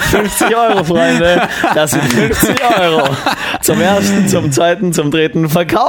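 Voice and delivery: lightly voiced auction call; auctioneer. Mock auction of the deal.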